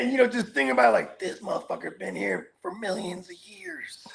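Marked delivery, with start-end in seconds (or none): 1.2-4.1 hushed whisper of wonder; whispered amazement at ancient redwood; awed whisper. Retold or imitated. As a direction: breathe it out in awe of the tree.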